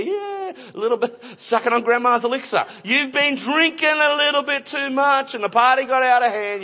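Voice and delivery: teasing accuser, jumping high on "yeah"; mock accusation. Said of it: "that was the accusation".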